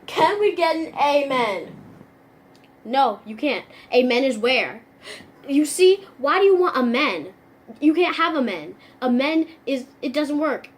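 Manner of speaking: loud, mock-pedantic sarcasm; sarcastic. Sarcastic friend nitpicking amen, loud and sarcastic. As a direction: twist the words to be difficult. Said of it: "That was major sarcasm".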